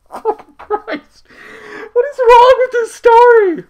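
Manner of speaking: high, loud laughing exclamation; laughing disbelief. Real, not acted. Reader reacts to the story with high laughing disbelief. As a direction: laugh out the outrage.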